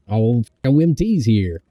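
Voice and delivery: playful, sing-song silly voice; whimsical. Pretend. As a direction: toss it off whimsically. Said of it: "I got a little too whimsical".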